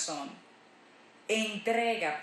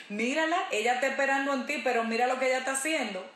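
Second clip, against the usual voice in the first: enemy accusing; 2 semitones higher, much faster than usual. Retold or imitated. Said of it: "el enemigo ... a decir".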